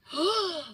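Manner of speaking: high, acted gasp; shocked gasp. Speaker recalls seeing themself on video, shocked gasp. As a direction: gasp in mock horror.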